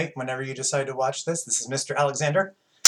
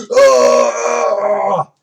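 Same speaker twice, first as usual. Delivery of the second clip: startled oh; 7 semitones higher, 12 dB louder than usual. Acted. Sudden startle in story.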